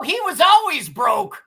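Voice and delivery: drawn-out mocking yell; half-laughing, half-shouting it; slow teasing shout. Real, not acted.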